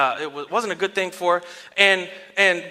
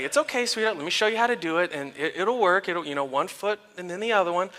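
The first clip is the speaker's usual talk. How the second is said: soft, patient parent voice; gentle reassurance; 6 dB quieter than usual. Retold or imitated. Dad showing daughter how to pedal, soft reassurance. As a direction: gently coach a small child.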